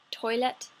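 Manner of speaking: toilet with a crisp final T; T pronounced. Shown as a demonstration. Reading a word list, toilet with a clear final T. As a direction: sound the T at the end of toilet. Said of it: "I just pronounced the T at the end there".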